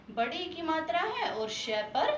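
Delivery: normal talking voice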